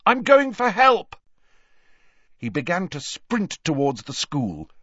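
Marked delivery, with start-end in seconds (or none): 0.0-1.2 loud, high shout over the wind; urgent shout. A narrator's reading. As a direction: shout urgently as you set off for help. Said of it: "he shouted at the others over the howling wind".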